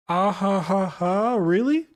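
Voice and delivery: slow, high mock 'ah ha ha ha' laugh; basic anime laugh. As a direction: ham up a stock cartoon laugh. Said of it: "the most basic One Piece laugh".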